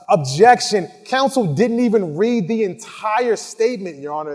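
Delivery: mock prosecutor objecting to the judge. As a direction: jump up and object.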